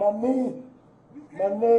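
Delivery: crying out in real pain; pained shout about his neck. Real, not acted.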